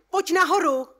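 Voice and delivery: loud call upward. A narrator's reading. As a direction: call her up from above. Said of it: "zavolám na ni". (hlasité zavolání nahoru)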